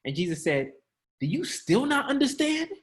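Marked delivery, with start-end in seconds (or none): 1.2-2.7 high, light question; mock gentle. Shown as a demonstration. Preacher imitating a mild Jesus, high and light. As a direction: ask it sweetly. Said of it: "You think he said it?".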